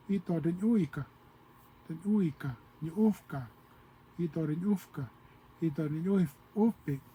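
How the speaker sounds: put-on teacher repeating the old sister words; old O'odham phrasing. Shown as a demonstration. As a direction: say "ito den uika" with a gentle falling end. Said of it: "So that's how they say sister".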